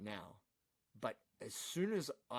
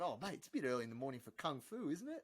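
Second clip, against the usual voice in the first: unbothered Chopper; 3 semitones higher than usual. Retold or imitated. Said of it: "He's going".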